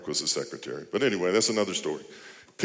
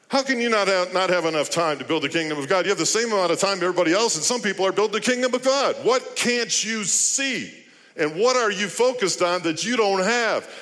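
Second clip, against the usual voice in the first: louder, higher, driving sermon voice; full-force preaching; 9 semitones higher, 3 dB louder than usual. Acted. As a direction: preach it hard, pushing every question.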